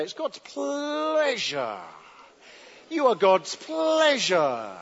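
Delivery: a slow, deliberate example for the room; sermon leader modelling a line for the congregation, slow and deliberate; slow model line. Shown as a demonstration. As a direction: say it slowly to your neighbour, stress on pleasure. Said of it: "Turn to the person next to you, say".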